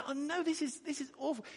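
high, aghast cry; horrified lament. Acted. God speaking through Habakkuk, high aghast lament. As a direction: let the horror crack through. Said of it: "what he says".

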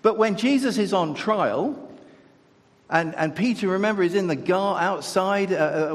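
ordinary delivery

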